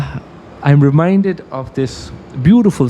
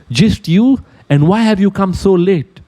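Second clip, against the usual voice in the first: a higher, lightly voiced lion, demanding; lion asks the small rabbit sharply why it came late; 9 semitones higher than usual. Storyteller voicing the lion to the late rabbit, lightly demanding.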